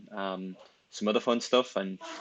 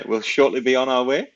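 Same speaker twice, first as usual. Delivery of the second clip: playful captain's announcement, higher and louder; airline pilot voice; 4 semitones higher, 8 dB louder than usual. Pretend. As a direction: ham up a pilot on the intercom. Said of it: "Sound like an airline pilot".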